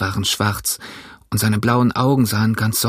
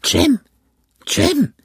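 much higher, pleased echo of a name; delighted repeating. A narrator's reading. Castaway delighted by Jim's name, high excited echo. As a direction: savor the new name with joy. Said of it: "wiederholte er".

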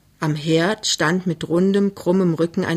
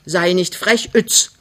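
brisk maternal rebuke; scolding; 3 dB louder, slower than usual. Acted. Mother scolds her cheeky daughter, mildly cross. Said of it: "schilt die Alte".

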